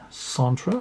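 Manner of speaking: Centre said the French way, nasal French a; mock French Centre; light French accent on Centre. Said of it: "My French accent is amazing".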